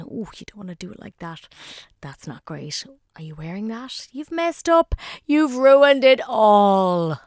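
nagging mutter building to a wail; mean and spiteful. Pretend. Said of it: "that mean little voice".

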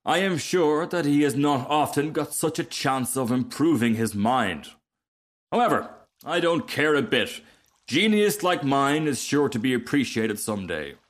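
haughty, self-admiring storybook voice; conceited rocket. Acted. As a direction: puff yourself up like a vain rocket.

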